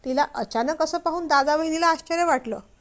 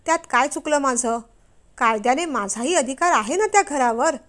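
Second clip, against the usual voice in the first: angry retort. Acted. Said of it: "रागारागाने इरा म्हणाली".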